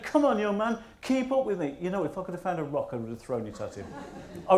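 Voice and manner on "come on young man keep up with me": mock cheery shout. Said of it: "he shouted".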